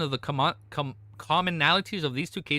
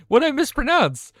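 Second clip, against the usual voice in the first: louder repeat; 11 semitones higher, 8 dB louder than usual. Real, not acted.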